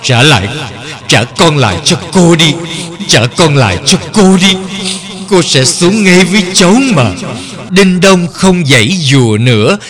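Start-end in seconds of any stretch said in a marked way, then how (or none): 0.0-7.1 heartbroken plea. Acted. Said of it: "anh Kỳ đau lòng nói".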